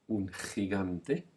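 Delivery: un gigante very slowly, gi as raspy khi; teacher drills gigante slowly for learners; breathy ch sound. Shown as a demonstration. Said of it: "say it".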